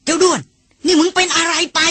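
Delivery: old hunter snapping at the elephant, voiced lightly; narrated snarl. A narrator's reading. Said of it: "นานอินตวาด". (ตวาดช้างแบบเล่าเรื่อง เสียงสูงขึ้น)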